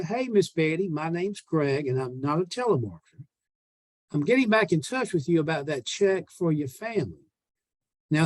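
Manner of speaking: friendly salesman leaving a phone message; a salesman's upbeat voicemail to an old lady; voicemail script read. Shown as a demonstration. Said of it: "just to review, I'm gonna say".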